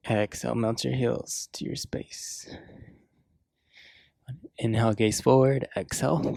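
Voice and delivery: measured yoga cues with long pauses; yoga class guidance. Real, not acted. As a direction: guide them through each breath and pose, unhurried.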